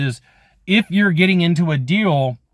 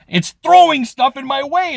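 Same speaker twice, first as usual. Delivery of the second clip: laughing universe; 10 semitones higher, slower than usual. Retold or imitated. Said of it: "The universe is like".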